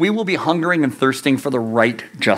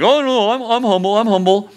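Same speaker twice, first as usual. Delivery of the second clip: mock smug; 5 semitones higher than usual. Mock self-satisfied voice.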